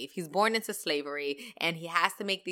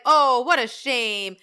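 Santa quote; 3 semitones higher, 6 dB louder, slower than usual. Retold or imitated. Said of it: "Santa comes in and he's like".

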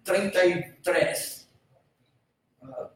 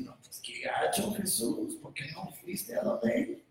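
mock complaint; 12 dB quieter than usual. Voicing a doubting objector.

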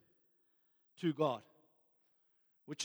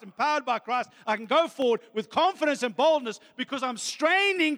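impassioned preaching; 5 semitones higher, 4 dB louder than usual. Real, not acted. Preaches with rising intensity.

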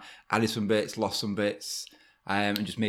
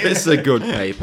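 put-on Boston accent; 2 semitones higher, 6 dB louder than usual. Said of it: "That sounds like a Boston accent".

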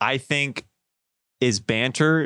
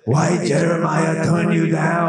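put-on Asian accent; 3 semitones higher, slower than usual. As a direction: call out the name in a heavy Asian accent. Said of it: "Do an Asian accent".

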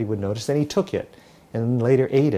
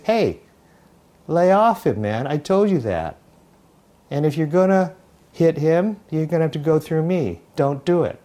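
standing up to a bully; 2 semitones higher than usual. Acted. Jesus confronts the bully again.

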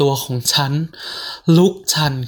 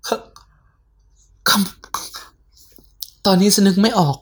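panicked whisper; 5 semitones higher, much slower than usual. Acted. Frozen in fear.

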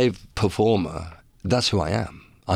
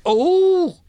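squealing oh's, much higher and louder; high laughing oh; 5 dB louder, much slower than usual. Real, not acted. Giggling at his own joke.

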